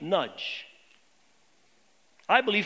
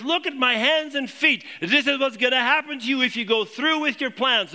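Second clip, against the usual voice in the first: raised, emphatic prophet's warning, mildly acted; urgent warning; 4 semitones higher than usual. Agabus warning Paul what awaits if he goes, urgent warning. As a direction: warn him insistently about what is coming.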